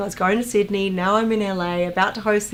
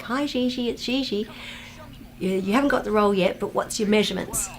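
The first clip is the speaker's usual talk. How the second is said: assistant on the phone; 3 semitones higher than usual. Retold or imitated. Assistant phones an actress for her measurements, lightly imitated. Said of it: "she called me up and she's like".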